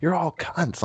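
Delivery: high, drawn-out letter-by-letter spelling; high-pitched retold taunt, slow on the letters; mock drunken taunting. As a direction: imitate a furious friend spelling an insult at each person. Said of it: "going down the line and like".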